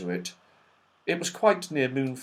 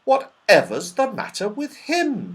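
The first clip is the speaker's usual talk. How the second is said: alarmed; 8 semitones higher than usual. A narrator's reading. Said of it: "The children listened in alarm".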